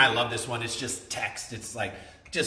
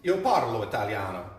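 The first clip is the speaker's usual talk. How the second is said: put-on Italian accent; 5 semitones lower than usual. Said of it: "your Italian accent is great".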